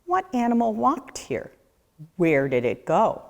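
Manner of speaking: ordinary delivery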